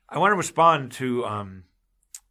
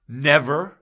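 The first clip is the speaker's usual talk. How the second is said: emotional outburst; 2 semitones higher, 5 dB louder than usual. Real, not acted. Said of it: "I'm getting emotional".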